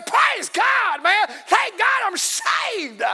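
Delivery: high, loud shout of praise, the last words drawn out slow; joyful shout. Retold or imitated. Believer shouting praise after getting saved. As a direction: throw your hands up and holler it. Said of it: "throw your hand up and say".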